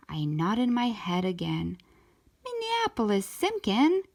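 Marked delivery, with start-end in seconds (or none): 2.4-4.0 high, sharp calling out of a full name; yelled name. A narrator's reading. Mom scolding her child by full name, high yell. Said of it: "yelled Mom".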